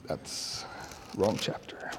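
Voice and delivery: off-mic aside. Real, not acted. Preacher catching his own slip, quietly off-mic. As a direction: turn away and correct yourself under your breath.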